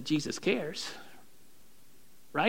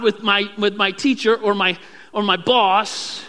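louder, higher demanding prayer; bossing God around; 4 semitones higher, 5 dB louder than usual. Retold or imitated. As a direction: list orders to God impatiently. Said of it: "and we say".

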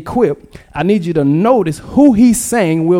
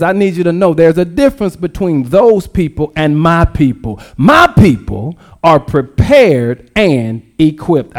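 voicing the Lord. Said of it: "And the Lord says".

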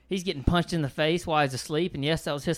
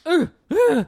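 high, loud mock dazed ooh; 12 semitones higher, 9 dB louder than usual. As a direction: play the stunned groggy groan. Mimics dazed reaction to first hit.

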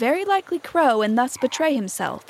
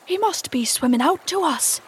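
lightly voiced pirate, pitched higher; 6 semitones higher than usual. A narrator's reading. Starkey explaining the captain's call to his mate, light pirate voice. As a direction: lift it into a pirate's voice.

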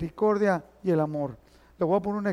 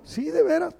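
high insistent yes; 8 semitones higher than usual. Retold or imitated.

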